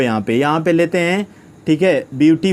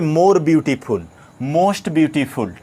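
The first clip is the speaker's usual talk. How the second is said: slow dictation; much slower than usual. Shown as a demonstration. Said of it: "teacher dictating example slowly".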